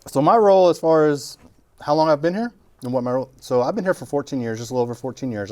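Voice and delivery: talking through a mouthful; words round chewing food; chewing while talking. Real, not acted. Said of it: "You're not even chewing. I'm chewing and talking".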